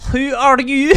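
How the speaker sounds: put-on high, loud Russian German accent, trying it out; first stab at a Russian German accent. GM voicing a blue-skinned stranger, high loud Russian German accent. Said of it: "do a Russian German accent".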